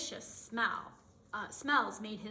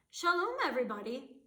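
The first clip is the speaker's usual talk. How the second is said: a touch louder, happy greeting; glad cry; 4 semitones higher, 5 dB louder, faster than usual. Acted. Baba Brena greets neighbors at the door, mildly raised. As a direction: call out warmly to friends. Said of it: "Baba Brena cried".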